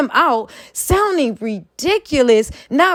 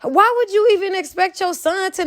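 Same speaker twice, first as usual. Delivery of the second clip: incredulous; 6 semitones higher than usual. Real, not acted. Incredulous rant at a dad.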